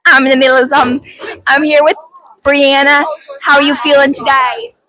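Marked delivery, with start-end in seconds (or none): 1.5-4.7 playful interviewer voice; host a pretend TV interview; mock reporter. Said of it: "mock interviewer again".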